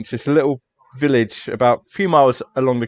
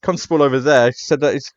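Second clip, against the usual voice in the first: higher, fast put-upon protest; detective brushing off the case, higher and put-upon; reluctant detective; 4 semitones higher, faster than usual. Acted. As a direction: whine that it's just an accident.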